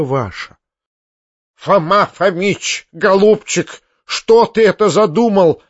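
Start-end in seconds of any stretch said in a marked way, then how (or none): 1.5-5.6 pleading, panicked and higher; a frightened woman begging; mild despairing cry; desperate cry. A narrator's reading. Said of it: "в отчаянии прокричала генеральша".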